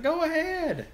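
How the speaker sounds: high, loud retold "go ahead"; high-pitched urging. Retold reply urging a drink.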